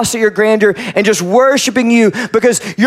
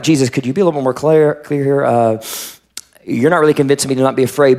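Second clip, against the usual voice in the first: low, fast, wry complaint; skeptical aside; 5 semitones lower, faster than usual. Acted. Pastor voicing doubting listeners to Jesus, low and wry. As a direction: grumble it quickly under your breath. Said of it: "we're like".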